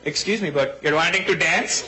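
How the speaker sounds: slow, hammed-up Indian accent. Indian guy asks a girl to dance, Indian accent. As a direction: put on a polite Indian accent, slowly. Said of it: "You don't see Indian guys faking their accent".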